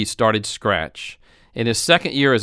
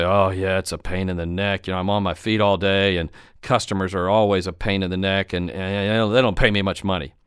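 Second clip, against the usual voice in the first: lower-pitched, mildly put-on grumble; moaning and whining; 4 semitones lower than usual. Store worker complaining about a hard job, mildly whining. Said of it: "they will either bitch, moan, and whine".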